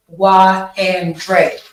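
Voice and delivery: "why" drawn out slowly and pushed; slow, weighty "why and dread"; imitating the stress. Student copying the teacher's stress on "why". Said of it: "Like, he emphasizing".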